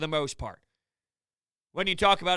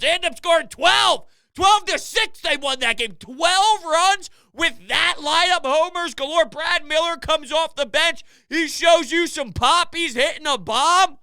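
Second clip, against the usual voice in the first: raised-pitch, incredulous excitement; astonished rant; 7 semitones higher, 4 dB louder than usual. Real, not acted. Host amazed that weak lineup scored twelve, astonished. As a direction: hammer out each feat in disbelief.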